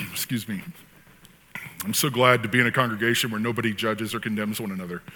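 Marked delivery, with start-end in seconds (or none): 1.8-5.0 deadpan sarcasm in an ordinary voice; understated mock sincerity; sarcastic. Real, not acted. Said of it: "of course I'm being sarcastic".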